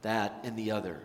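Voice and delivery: grateful voice fading to a whispered thanks; tender whispered gratitude; grateful heart. Acted. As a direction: soften down to a hushed thank you. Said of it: "The grateful heart says".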